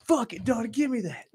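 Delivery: high, loud, reckless call; retold pumped-up shout; accepting a dare. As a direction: take the bait loudly.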